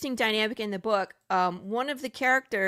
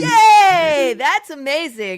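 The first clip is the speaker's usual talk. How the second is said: loud, high joyful yay; excited cheer; 6 semitones higher, 13 dB louder, much slower than usual. Real, not acted. Cheering a new viewer.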